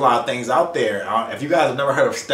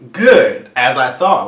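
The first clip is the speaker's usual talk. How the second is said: emphatic retort; 8 dB louder, slower than usual. Retold or imitated. Retold relief at negative result.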